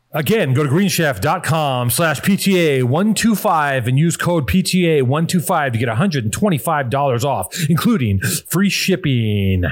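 slow, stretched-out ad read, drawing out "free shipping"; slow deliberate repeat. Real, not acted. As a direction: spell out the offer slowly. Slow repeat of promo code.

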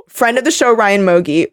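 ordinary delivery

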